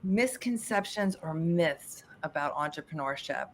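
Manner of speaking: hushed, low thinking aloud; softly pondering, half under the breath; musing to oneself. Real, not acted. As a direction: murmur the question back to yourself. Repeats the question while thinking.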